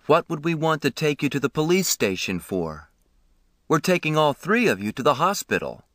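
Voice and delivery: a calm, kindly man, voiced lightly; lightly voiced ambulance man. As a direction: reassure the boy gently.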